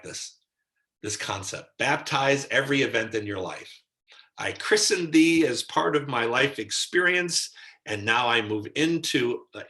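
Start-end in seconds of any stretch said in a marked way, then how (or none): 4.4-9.5 lightly declaimed christening, raised and louder; higher, louder ceremonial pronouncement. Acted. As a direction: proclaim it like a mock baptism. Mock baptism of life events.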